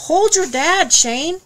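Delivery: panicked dive partner calling out; urgent call. A narrator's reading. Panicked call in shark attack.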